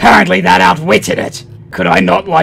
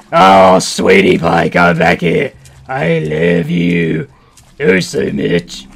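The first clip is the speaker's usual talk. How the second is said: mock tender; slower than usual. Coaxing a game creature.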